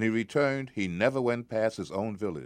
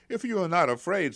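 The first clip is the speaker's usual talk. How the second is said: put-on eager boy's challenge; 11 semitones higher, 5 dB louder, faster than usual. Boy challenges giant.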